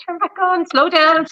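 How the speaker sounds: mock panicked driver; panicked pleading. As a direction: beg the car in panic. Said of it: "holding the steering wheel being like".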